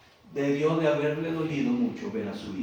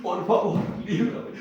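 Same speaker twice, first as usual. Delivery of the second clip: somewhat higher pleading voice; mild weeping plea; 9 semitones higher, 5 dB louder than usual. Acted. Jesus prostrate again, mildly higher weeping plea. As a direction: beg the Father, half crying. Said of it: "volvió a llorar".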